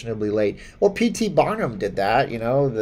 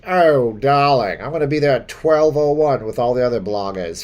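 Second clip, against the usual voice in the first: mock posh; 5 dB louder than usual. Mock posh reply to chat.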